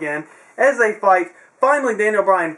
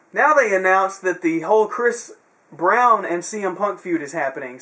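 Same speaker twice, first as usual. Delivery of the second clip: normal talking voice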